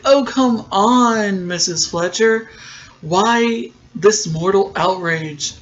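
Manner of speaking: slow, drawn-out oily mockery of the producer; mock oily villain. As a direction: drag it out like a smarmy villain. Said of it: "And he's like".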